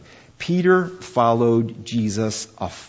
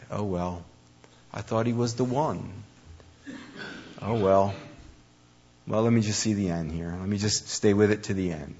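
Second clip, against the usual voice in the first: resigned. Retold or imitated. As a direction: let it go with a mild shrug in the voice. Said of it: "Just resignation".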